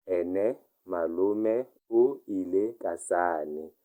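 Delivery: slow, careful model reading; slow repeat. Shown as a demonstration. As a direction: lay out Ene malome o ile ka sane slowly for learners. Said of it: "teacher repeats it slowly".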